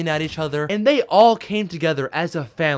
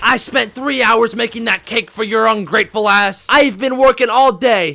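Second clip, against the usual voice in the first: retold yelling; 3 semitones higher, 4 dB louder than usual. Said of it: "started yelling at each other like".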